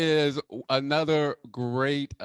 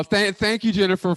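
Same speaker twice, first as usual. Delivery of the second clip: ordinary delivery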